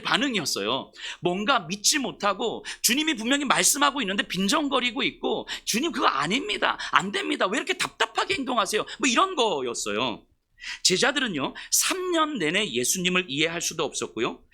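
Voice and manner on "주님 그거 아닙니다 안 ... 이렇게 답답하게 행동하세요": higher, whining mock complaint; whiny disciples. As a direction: whine at the master's slowness. Disciples whine to Jesus. (제자들이 예수님께 높은 목소리로 투덜대듯)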